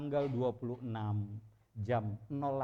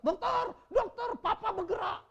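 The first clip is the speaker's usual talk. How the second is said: excited call; 7 dB louder than usual. Retold or imitated. Eldest child calling the doctor, excited high shout. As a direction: call the doctor in shocked joy.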